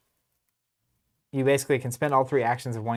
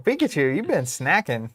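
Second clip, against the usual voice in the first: playful Pikachu voice; 3 semitones higher, 5 dB louder than usual. Retold or imitated. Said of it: "It's like".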